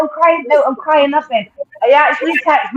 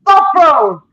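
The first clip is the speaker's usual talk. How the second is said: excited outburst; 6 semitones higher, slower than usual. Real, not acted. The speaker protesting to the panel that Bovril is a gravy, excited. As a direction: squeal it out in disbelief.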